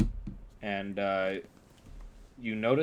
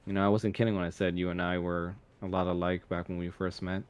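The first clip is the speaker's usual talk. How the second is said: fast, light knowing delivery; chuckling quickly; 2 semitones lower, faster than usual. Acted. Sona admitting to Kanan they are alike, fast and wry. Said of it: "chuckles a bit and goes like".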